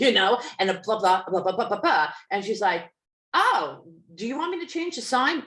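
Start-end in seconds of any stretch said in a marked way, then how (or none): 3.3-5.4 higher, faster, sugary mock question; mock sweet woman. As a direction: imitate her fake-innocent offer. Woman mocked asking about sign.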